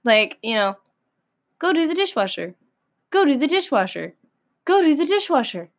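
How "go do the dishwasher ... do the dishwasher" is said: nagging. Acted. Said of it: "repeat something to you".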